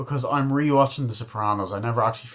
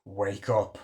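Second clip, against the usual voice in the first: whispered, slow wake-up call; hushed menace; 4 semitones lower, 9 dB quieter, slower than usual. Retold or imitated. Wife points a gun at her sleeping husband, whispering. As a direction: whisper it slowly, very softly.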